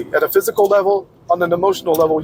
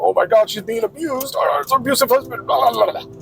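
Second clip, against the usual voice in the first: higher, mocking shocked voice; mocking feminists; 6 semitones higher than usual. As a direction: parody the outraged feminists, pitched up. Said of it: "they go".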